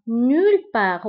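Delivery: "Nulle part" with the t of part left silent; silent final t. Shown as a demonstration. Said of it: "part نكتبها بالت في آخر الكلمة، ولكن لا ننطقها". (انطق "Nulle part" بدون نطق حرف t في آخر part)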